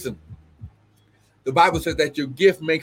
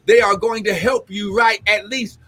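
fervent prophecy with exclamations of glory; prophetic preaching; 5 semitones higher than usual. Acted. Prophet releasing a word to the apostle, fervent preaching. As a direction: preach it as an urgent personal word.

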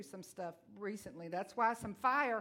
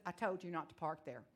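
calm divine voice; 4 semitones lower, 5 dB quieter than usual. Retold or imitated. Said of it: "He said".

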